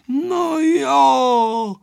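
high, drawn-out jolly teasing; villagers' merry banter without actual laughter; amused neighbours. A narrator's reading. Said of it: "smáli se sousedé".

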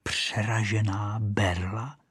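put-on the rocket repeats the boy's words to herself, offended. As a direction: repeat it slowly as if insulted. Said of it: "opakovala si Rachejtle".

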